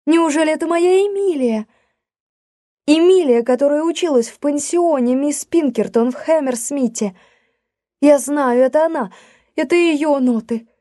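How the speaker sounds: high, eager rush of joy at finding a lost friend; excited exclaiming. A narrator's reading. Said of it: "воскликнула мисс Уортс".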